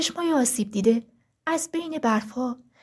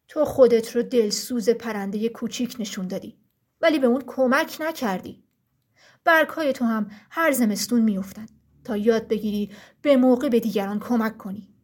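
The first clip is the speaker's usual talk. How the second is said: stern forest ruler; 2 semitones lower than usual. Acted. Frost, ruler of the forest, addresses the trees sternly. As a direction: speak as the frost king laying down the law.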